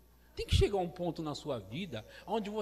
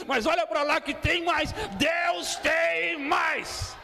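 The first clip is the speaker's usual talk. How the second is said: loud, high preacher's cry; fiery preaching; 6 semitones higher, 10 dB louder than usual. Acted. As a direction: preach it out at full force. Preaching at full force.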